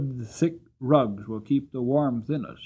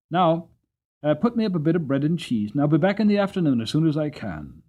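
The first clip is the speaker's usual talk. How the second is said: a touch brisk and quicker, a hint of a cheerful cab driver; lightly voiced Jerry; 4 semitones higher, 3 dB louder, faster than usual. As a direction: rattle off the request in a hurry, lightly in character. Jerry speaks to Polly.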